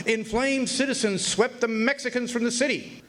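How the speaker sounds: a touch of a newsboy's headline; headline read. Retold or imitated. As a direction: read it out like a front-page banner. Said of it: "read another".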